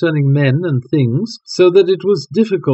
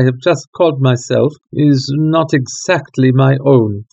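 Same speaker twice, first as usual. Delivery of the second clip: lightly voiced nobleman. Count explains his mask.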